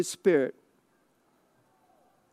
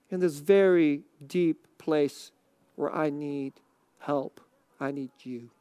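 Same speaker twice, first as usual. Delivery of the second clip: earnest, hushed prayer; 3 semitones lower than usual. Shown as a demonstration. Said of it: "What if the prayer is something more serious".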